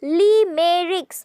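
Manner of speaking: "Limericks" in three separate beats; split into syllables. Shown as a demonstration. Teacher showing three syllables, "Limericks" split in three. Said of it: "means three syllables".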